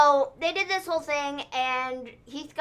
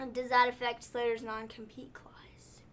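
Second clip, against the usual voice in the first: hushed unvoiced whisper; 6 dB quieter than usual. Real, not acted. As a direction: ask it under your breath. Whispered question aside.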